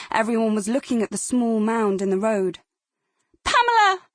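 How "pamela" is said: very high, loud terrified scream of a name; yelling her name. Acted. Girl screams sister's name after the accident, high horrified yell. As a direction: cry out in horror as you run to her. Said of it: "Adele yelled out".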